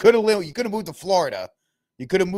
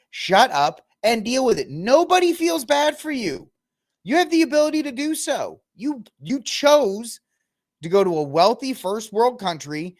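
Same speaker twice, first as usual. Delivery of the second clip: high, insistent scolding; exasperated rant; 7 semitones higher, 4 dB louder than usual. Real, not acted. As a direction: scold with indignation, voice pitched way up. Ranting at the absent celebrity.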